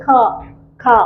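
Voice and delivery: खा with a breath after the k; aspirated K sound. Shown as a demonstration. Teacher drilling K for students, खा as aspirated "khaa". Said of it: "vocal से निकलते हैं".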